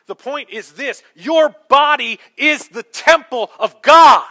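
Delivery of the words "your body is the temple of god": loud, high, slow, hammering each word; emphatic preaching shout. Real, not acted. Preacher telling the congregation the point is this, emphatic shout. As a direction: drive it home at full volume.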